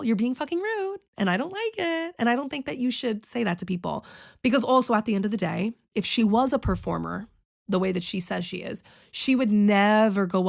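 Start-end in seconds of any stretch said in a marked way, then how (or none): 0.0-4.0 a sticky-sweet smiling put-down, not the curse-out take; the polite smiling version of the rude line; sweet smile. Shown as a demonstration. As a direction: say it through a sugary smile. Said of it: "just smile".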